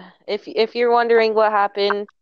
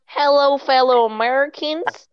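politician voice; 3 semitones higher than usual. Acted. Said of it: "some of what I do for the role".

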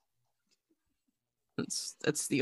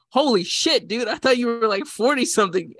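shocked exclamation; 8 semitones higher, 7 dB louder than usual. Retold or imitated. Retold shocked reaction to age.

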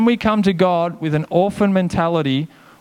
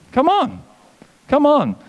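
rallying shout; 9 semitones higher than usual. Real, not acted. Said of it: "rallying cry".

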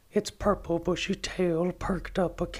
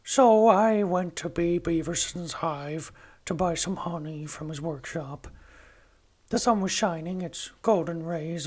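lightly voiced Winnie the Pooh; a gentle hint of Pooh Bear reading his diary; Pooh impression. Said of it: "I have developed a decent impression of Pooh".

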